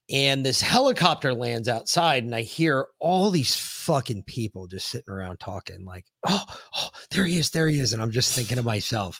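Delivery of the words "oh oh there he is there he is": higher, hushed mock gasps of awe; imitating awed onlookers. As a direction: mimic a starstruck crowd murmuring. Onlookers react as helicopter lands.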